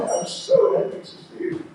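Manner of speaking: high, quick happy voice; happy greeting. Acted. Joyful greeting in devotional story.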